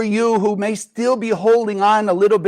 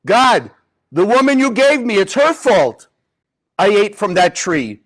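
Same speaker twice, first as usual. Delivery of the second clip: Adam blaming Eve; 3 dB louder than usual. Acted. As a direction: push the blame off, whining a little. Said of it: "What does Adam say?".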